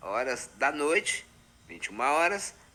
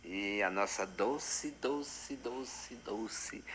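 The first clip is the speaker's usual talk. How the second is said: fading to a whisper; 3 semitones lower, 10 dB quieter, much slower than usual. Acted. Dreamy sigh over Dulcinea.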